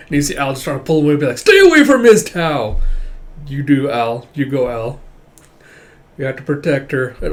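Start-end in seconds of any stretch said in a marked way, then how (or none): 1.4-2.8 loud, high warning; high shouted warning; protective shout. Acted. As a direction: yell him off her, much higher. Al protectively pulls him away.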